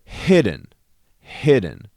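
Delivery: hidden with weight on hid, dropping away on den; stress on first syllable. Shown as a demonstration. Composer showing stress on hidden. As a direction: hit hid and let den fall away. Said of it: "you put that emphasis on the first beat".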